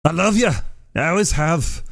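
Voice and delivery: hammed-up shop clerk welcome; imitating the cashier. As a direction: mimic the register guy's big cheerful greeting. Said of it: "That's what he says when anyone comes".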